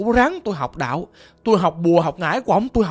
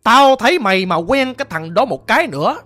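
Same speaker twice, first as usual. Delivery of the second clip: a mildly raised, scolding father's voice; retold father's scolding. Caller imitates father cursing him, mild mock anger. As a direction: imitate the father berating his son, half-heartedly. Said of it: "Ổng chửi tôi vậy đó".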